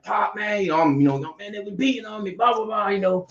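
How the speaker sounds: high mock whiny victim voice; mock innocent kid pleading to pop; playing victim. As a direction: act small and pitiful to your dad. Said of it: "Trying to play little victim".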